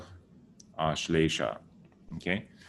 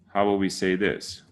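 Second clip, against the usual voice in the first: normal talking voice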